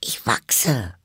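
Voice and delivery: hushed, near-whispered meek admission; small whispery character voice; modest. A narrator's reading. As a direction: confess it shyly under your breath. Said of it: "sagte Alice bescheiden".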